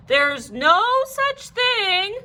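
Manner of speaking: habitual denial. A narrator's reading. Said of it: "Mother started to say".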